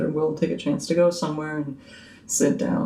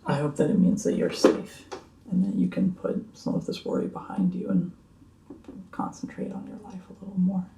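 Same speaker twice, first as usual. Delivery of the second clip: soft, gentle reassurance; sincere; 3 semitones higher, 6 dB quieter than usual. Acted. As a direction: comfort them quietly. Sincere consolation.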